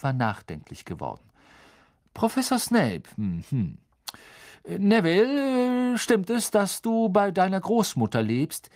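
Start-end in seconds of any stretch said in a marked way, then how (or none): 2.1-8.7 higher, louder friendly professor voice; kind teacher. A narrator's reading. Teacher explaining the spell to the class, higher and friendly. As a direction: explain patiently like a gentle teacher.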